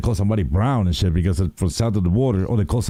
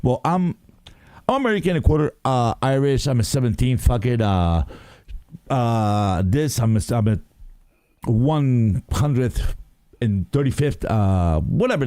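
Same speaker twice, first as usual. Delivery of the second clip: mock ancestry rambler; slower than usual. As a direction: parody someone listing fractions of heritage. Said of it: "people be like".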